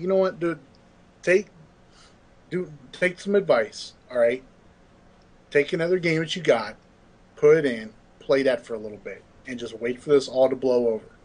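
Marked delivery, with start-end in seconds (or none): none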